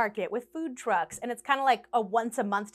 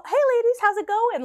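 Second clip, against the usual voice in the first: higher and louder, a mock smooth-talker's greeting; smooth pickup line; 11 semitones higher, 5 dB louder than usual. Tall man greets the women in a mock slick voice. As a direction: ham up a cheesy bro hitting on the girls. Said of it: "No, like, no".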